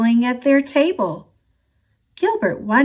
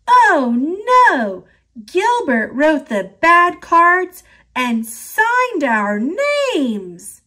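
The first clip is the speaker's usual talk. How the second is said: high, louder alarmed cry; shouting; 6 semitones higher, 3 dB louder, slower than usual. A narrator's reading. Lewis realising the trick, shouting in alarm. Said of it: "Then he shouted".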